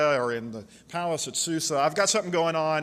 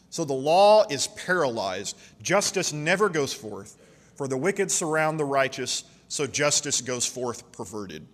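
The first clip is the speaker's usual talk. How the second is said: scripture reading. Acted. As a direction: lean into each cry of the complaint.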